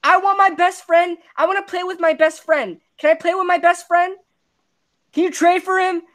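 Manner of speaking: mock whiny teammate. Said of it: "and he said".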